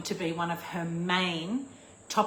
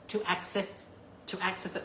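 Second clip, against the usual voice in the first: with hiccups; 5 dB quieter, faster than usual. Real, not acted. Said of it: "Sorry, I've got the hiccups".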